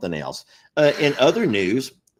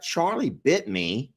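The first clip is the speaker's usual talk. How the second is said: put-on British accent; 2 semitones higher, slower than usual. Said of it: "in that cute little British accent".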